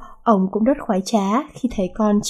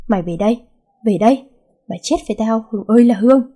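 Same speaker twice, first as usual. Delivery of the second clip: angry yell; faster than usual. Acted. Furious father summoning his daughter, angry yell. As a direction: bellow the daughter home.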